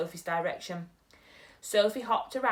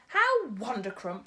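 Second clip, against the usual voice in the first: beaming; 4 dB louder than usual. Acted. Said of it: "cried the B F G, still beaming".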